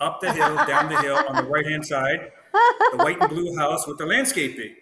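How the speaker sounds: directions rattled off through laughter; laughing. Real, not acted. Explaining his address to a friend, laughing through it. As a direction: laugh as the directions get silly.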